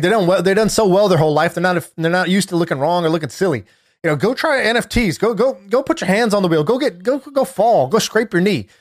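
fired-up, pushing the lines out; hype rant. Retold or imitated. Retelling a CEO's hype speech about raising kids, fired up. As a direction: preach it like a fired-up CEO. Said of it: "this is such a hype monologue".

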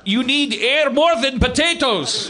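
put-on slow, high, hammy Russian accent. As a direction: drag it out like a Russian captain. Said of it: "my Russian accent was pretty crap".

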